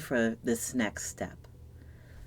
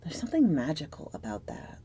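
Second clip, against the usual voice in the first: breathy whisper, letting it sink in; soft secretive whisper over the card; hushed whisper; 4 dB quieter than usual. Acted. Tarot reading, hushed moment.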